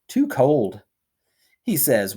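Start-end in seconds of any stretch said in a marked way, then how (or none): 0.1-0.8 whispered refusal. Acted. Harvey's curt refusal.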